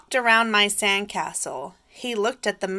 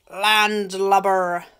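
pirate talk; 6 dB louder, slower than usual. Acted. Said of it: "say real pirate stuff like".

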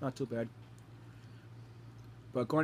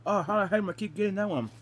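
high, loud exasperation; complain, half laughing, louder; exasperated; 6 semitones higher, 5 dB louder than usual. Real, not acted. Gets bad bean again.

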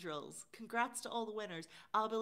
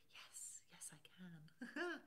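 whispering; 2 semitones lower, 10 dB quieter, much slower than usual. Real, not acted. Quiet aside reply to Lynn.

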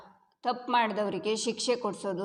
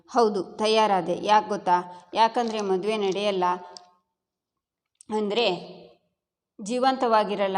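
heated retort; 4 dB louder than usual. Acted. Arjun answers Bhargavi in a loud heated retort. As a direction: throw it back at her with force. Husband heatedly argues with wife.

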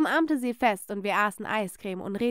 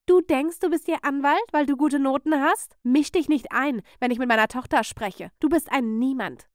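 raised, scornful rebuke; irate aunt telling off a child; angry put-down; 3 semitones higher, 4 dB louder than usual. Acted. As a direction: put the meddling niece in her place. Aunt snaps at interfering niece.

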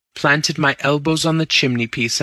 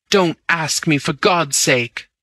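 pleading; 5 semitones higher than usual. Acted. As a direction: drag out the plea as it falls back. Bunny begs Raffles to stop.

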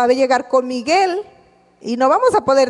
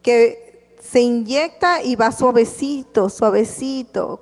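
slow and soothing; slower than usual. Shown as a demonstration. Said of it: "como un anestésico".

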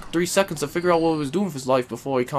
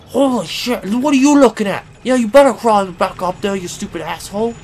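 angry yelling; 2 semitones higher, 6 dB louder than usual. Real, not acted. Player yelling at a retreating enemy, loud taunt. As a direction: bark it at the monster, much louder.

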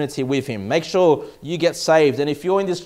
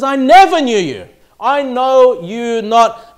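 solemn verdict; 4 semitones higher, 6 dB louder, slower than usual. Acted. Jesus' final verdict.

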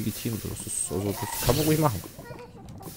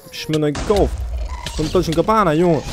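louder, higher whiny voice; posh whiny complaint; 5 semitones higher, 8 dB louder than usual. Pretend. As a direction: whine about designer armor. Complaining about ruined fancy armor.

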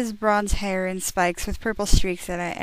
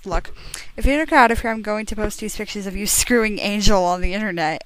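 mock shout; faster than usual. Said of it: "I shooted".

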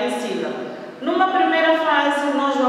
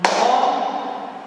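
"Mola" split into mo and la; syllable by syllable. Shown as a demonstration. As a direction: say "Mola" as two detached beats. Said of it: "Vamos contar".

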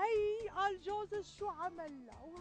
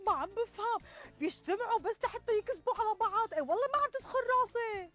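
exasperated; 4 semitones higher, 6 dB louder, faster than usual. Acted. Exasperated rant about lying.

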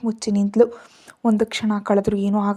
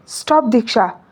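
sharp shout; 4 dB louder than usual. Acted. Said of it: "ವಿಕ್ರಮ್ನ ಅರಚಾಟಕ್ಕೆ".

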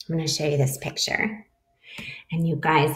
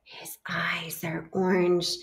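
spooky whisper; 6 dB quieter than usual. Acted. Mouse describes scary monster.

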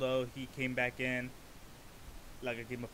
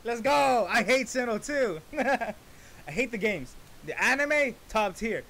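high, loud laughing rant; excited rant; 7 semitones higher, 6 dB louder than usual. Real, not acted. Reactor rants about hating the Sinnoh games, high and loud. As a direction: gush and gripe at full energy.

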